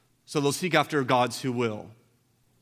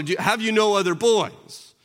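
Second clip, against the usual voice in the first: raised, searching question; asking Samuel; 7 semitones higher, 7 dB louder than usual. Retold or imitated. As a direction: press the father for another son. Voicing Samuel asking Jesse.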